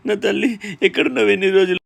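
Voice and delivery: high, overwrought father's voice; anguished tenderness, pitched high; emotional reunion. Acted. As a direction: pour out relief to a lost child. Father reunited with lost daughter.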